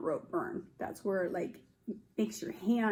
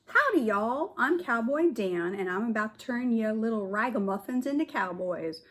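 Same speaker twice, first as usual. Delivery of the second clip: cowboy drawl. Acted. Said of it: "said the realest looking cowboy".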